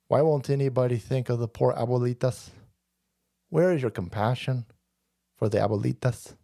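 a sanctimonious scold, lightly voiced; mock lecture. Mocking a preachy progressive lecture.

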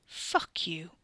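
seething whisper. Acted. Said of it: "Ricky seethed".

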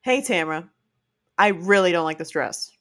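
kind, even take on Hey, Tamra; nice version of the same words; gentle attitude. Shown as a demonstration. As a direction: say it kindly. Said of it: "It's the same words. It's different attitude".

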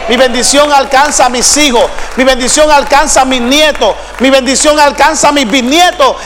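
forceful, rhythmic preacher's proclamation; declaring a blessing. Real, not acted. Preacher declares blessing over descendants, forceful rhythmic preaching. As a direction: proclaim each line with mounting insistence.

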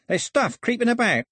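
very high-pitched, jittery moaning; fearful moan. Acted. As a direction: wail it up high, spooked. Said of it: "he moaned".

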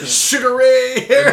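laughing, high and loud. Real, not acted. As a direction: blurt it out while laughing. Laughing exclamation.

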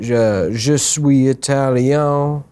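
slow, hammed-up French; mock French accent. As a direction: stretch it out in a fake French accent. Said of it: "New York Cajun".

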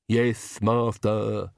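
comic lisping henchman; ridiculous servant voice. A narrator's reading. Igor answering the Count, ridiculous lisping servant voice. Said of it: "the ridiculous voice".

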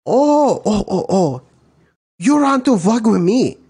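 high, loud mock Asian accent. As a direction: blow up in a hammed-up Asian accent. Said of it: "Then you got your Asians".

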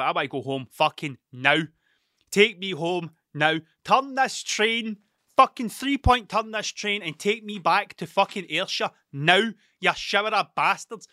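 half-acted fury, demanding to go home; retold angry outburst. On a London train, demanding to go home, a mock angry rant. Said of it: "I was fucking angry".

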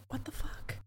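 voiceless, very soft disbelief; stunned whisper. Acted. Co-host reacting to the scene, stunned whisper. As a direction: whisper it under your breath in disbelief.

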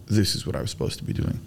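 soft whispered realization; whispering. Real, not acted. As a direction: whisper it like a secret truth. Quiet realization.

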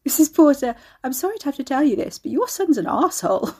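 high, giggly confession; loud, bubbling mock apology; suppressed laughter. A narrator's reading. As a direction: fight back laughter while apologising. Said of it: "couldn't help it".

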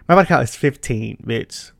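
whispered confession; whispering. Real, not acted. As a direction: whisper it like a secret. Revealing her count.

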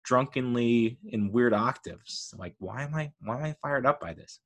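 soft, puzzled aside; baffled self-questioning. Retold or imitated. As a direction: wonder at yourself quietly. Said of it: "And you're like".

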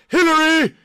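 hammed-up tough guy yelling at Hillary; mock yelling at Hillary. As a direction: bark it like a showman. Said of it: "You're like".

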